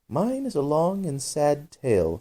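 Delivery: slow sad sigh; mournful, slow sigh of the mouse. A narrator's reading. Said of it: "turning to Alice and sighing".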